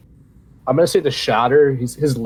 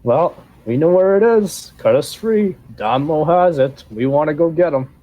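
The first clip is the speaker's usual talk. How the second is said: lightly higher goblin pleading; a captive goblin begging, a bit higher; 5 semitones higher than usual. Acted. GM voices goblin prisoner.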